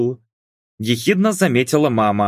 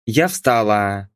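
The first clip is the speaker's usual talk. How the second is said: ordinary delivery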